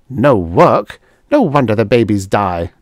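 "No work?" rising in disbelief; incredulous exclaim. Acted. Dora scoffing at the Venusians' idle life. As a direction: throw "No work?" back incredulously. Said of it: "Dora exclaimed".

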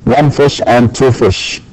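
slow, deliberate One fish and two fish; slow example sentence. Shown as a demonstration. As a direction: read the example slowly for learners. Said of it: "تقول سمكة وأسماك".

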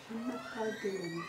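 put-on Je m'appelle Dylan said clearly and deliberately for small children; teacher modelling a name for a nursery child; slow clear model phrase. Shown as a demonstration. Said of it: "You say it this time".

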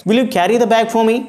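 quick, high, pushy demand; a brisk demand with no please. Shown as a demonstration. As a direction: snap it out as an order.

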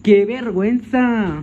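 loud, high, drawn-out cry; embarrassed wail. Pretend. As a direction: wail it loudly, stretching it out. Exclama su vergüenza en broma. (lamento fuerte y agudo de vergüenza)

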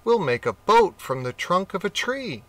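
a clever rat with a plan; rat's plan. Acted. Rat voiced in story.

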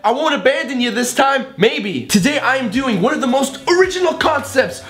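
high, bouncy host voice; hyped YouTube dad. Acted. Dad hyping his kids for a beat video, high and bouncy. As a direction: sell the video like a cheeky dad.

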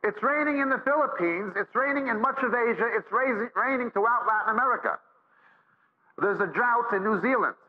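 preacher intoning a world roll call, lifted high; rhythmic preaching litany. Acted.

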